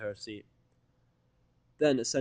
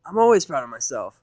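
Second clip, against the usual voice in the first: proclaiming Rainbow; 4 semitones higher, 13 dB louder than usual. Acted. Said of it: "Rainbow proclaimed".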